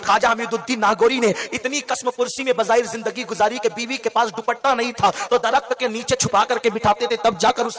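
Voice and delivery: lilting, half-sung refrain of each line; rhythmic preaching refrain. Acted. Preacher lists saints to the crowd, half-singing the refrain. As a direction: chant the refrain like a litany.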